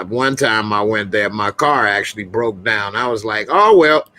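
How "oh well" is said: high-pitched, retold delight; reenacted giddy resolve, higher and lively; acted excitement. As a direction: act out being thrilled to stay, pitch way up. Acts out past delight at Miami.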